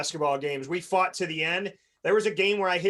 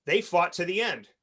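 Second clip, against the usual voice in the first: sincere demo. Shown as a demonstration. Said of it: "your language should be".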